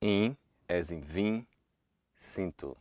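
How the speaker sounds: vim and sinto with a nasal in; Portuguese nasal i. Shown as a demonstration. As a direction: push the i through the nose. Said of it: "hear what the nasal vowel sounds like".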